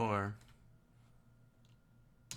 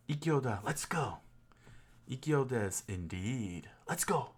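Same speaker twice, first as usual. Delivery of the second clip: playful practice; 3 semitones higher than usual. Shown as a demonstration. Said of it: "Ah, now it makes sense".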